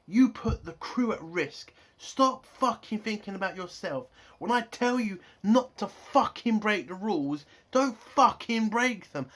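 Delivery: heated mock reprimand, punching the curse words; acted angry telling-off. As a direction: play an exasperated captain laying into someone. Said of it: "Saru shouting at Michael".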